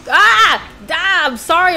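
high, loud scared cry; startled yelp. Real, not acted. Hit by the spider, startled yelping. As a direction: yelp in fright.

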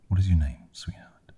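cooing. A narrator's reading. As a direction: open strong, soften sharply on the last word. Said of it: "she cooed".

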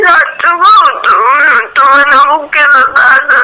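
pleading. Real, not acted. Tearful plea not to leave.

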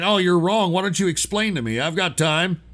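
snide mock of a leftist. Host mocking a caller's leftist reply, snide. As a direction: sneer it like a smug leftist. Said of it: "instead of acting like a leftist and saying".

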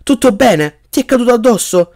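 high-pitched worried questions; shout. A narrator's reading. Cedric asks if Harry is hurt, calling out high. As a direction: call out in concern. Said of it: "gridò Cedric".

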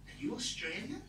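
high, rising, imitated questioning; tentative date's question. Date asks comedian where he's from, tentative high question.

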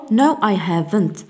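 "haven't" slowly with a full vowel; a measured short answer, full A in "haven't"; strong HAVEN'T. Shown as a demonstration. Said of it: "تكون قوية". (نطق "haven't" قوية ببطء)

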